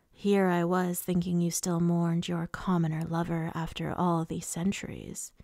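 mock them in an understated villain voice; lightly voiced mocking lord. Voices Rhysand mocking the others.

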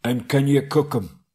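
a hint of troll Tom keen to cook; lightly voiced hungry troll; eager troll. A narrator's reading. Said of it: "said Tom".

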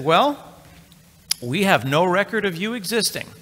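put-on a clerk flatly denying he exists, French accent; mock French accent. Hosting clerk telling the customer he has no record, mock French accent. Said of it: "now they have a French accent".

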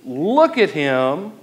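mock admiring. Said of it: "He doesn't say".

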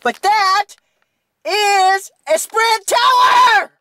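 slow, shouted angry rant. Real, not acted. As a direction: spell out each word in outrage. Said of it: "But I'm gonna rant".

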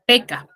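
"peca" said clearly with a hard k sound, as in Huaraz Quechua; "peca" with a crisp k, the way people in Huaraz say it; Huaraz pronunciation. Shown as a demonstration. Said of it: "acá en Huaraz nosotros decimos a la cabeza".

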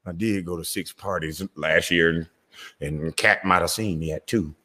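imitating a guilty celebrity sweating beside his wife; nervous celebrity. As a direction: mutter it like you're scared of being exposed. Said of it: "They be sitting next to their wife and their girl like".

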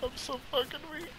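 high, thin, strained voice of a dying man; weak dying voice. Pretend. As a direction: sound like you're fading fast. Playing wounded, dying character.

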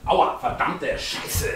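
slow hissed curse in pain; hissing in pain. Real, not acted. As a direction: hiss it through the pain. Hurts himself, swears.

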